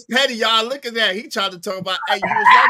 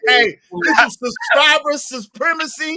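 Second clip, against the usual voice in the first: slow, raised, hammed-up decree; mock proclamation; 6 semitones higher than usual. Host to his chat, a hammed-up slow proclamation. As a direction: announce it like a grand ruling.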